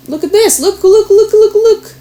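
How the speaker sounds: rising, eager look, look, look; excited look look. Real, not acted. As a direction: point it out with a thrill, pitch climbing. Spots a card sticking out.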